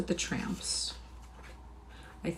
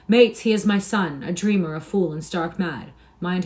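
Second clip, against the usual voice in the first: loud, raised call to mates; heard above din; 7 dB louder than usual. A narrator's reading. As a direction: project over a noisy room. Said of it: "to make himself heard above the din".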